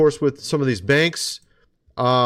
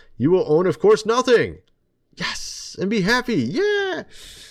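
completely sarcastic, sneering, sing-song mocking delivery; 6 semitones higher than usual. Addressing the audience as folks, mocking a quoted prediction, completely sarcastic. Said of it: "I'm being completely sarcastic there".

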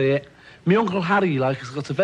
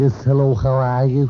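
put-on American accent, trying to sound American; 5 dB louder than usual. Asked in an interview if he speaks American, the speaker tries; attempted American accent. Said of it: "Do you speak American at all?".

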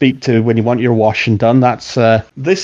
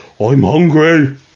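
complaining ogre voice, hungry sounding; 2 semitones higher than usual. Voicing the ogre Gino with a rumbling belly: hungry ogre voice. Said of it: "He go".

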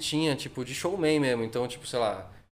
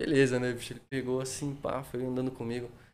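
plain

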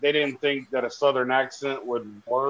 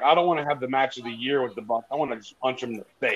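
plain

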